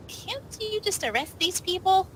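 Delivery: ordinary talk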